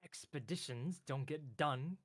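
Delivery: slow, fussy lightly voiced clerk; a hint of a fussy clerk; prim clerk. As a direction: correct them like a pedant, slowly. Clerk lectures the party.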